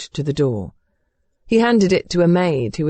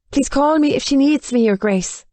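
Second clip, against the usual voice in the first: high, deferential request, not truly hushed; meek murmur; 8 semitones higher than usual. A narrator's reading. Maid taking leave of the Duke, meek and high. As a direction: offer help meekly before leaving. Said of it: "Annie murmured".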